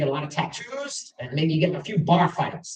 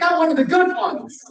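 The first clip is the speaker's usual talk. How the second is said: put-on higher and louder, beaming childish pride; proud kid; 9 semitones higher, 5 dB louder than usual. Ten-year-old boy repeating grandmother's praise, proudly excited.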